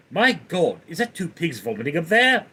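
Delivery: cartoon character impression; Stewie. Streamer showing the one quote remembered, Stewie impression. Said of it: "like Stewie, I cannot, can't think of something to say".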